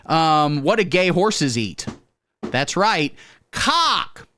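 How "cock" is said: squeaky punchline. Acted. Punchline in high voice.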